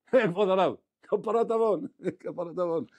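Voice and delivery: high, slow, drawn-out cry; acted exclamation. Rabbi voicing the student reacting to the sunken boat, drawn-out exclamation. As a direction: stretch the words out loud and high.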